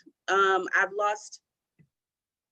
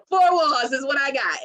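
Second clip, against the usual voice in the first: laughing lament; 6 semitones higher, 5 dB louder than usual. Real, not acted. Laughing lament about isolation.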